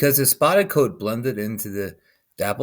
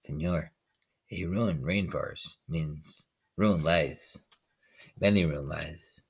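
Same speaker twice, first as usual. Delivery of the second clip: squeaky voice; 4 semitones lower, 7 dB quieter than usual. A narrator's reading. Tree frog piping in the man's ear, squeaky. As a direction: pipe it like a tiny frog. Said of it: "In a squeaky voice, he piped".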